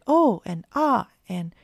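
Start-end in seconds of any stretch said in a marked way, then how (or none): 0.1-0.4 high, loud surprised cry; a sudden dismayed oh. A narrator's reading. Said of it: "The three little kittens cried". 0.7-1.1 high, loud dismayed ah; crying out. A narrator's reading. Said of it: "The three little kittens cried".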